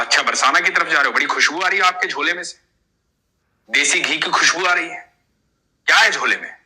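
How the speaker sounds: put-on a boy warning the old man to stop; young boy. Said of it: "बोला".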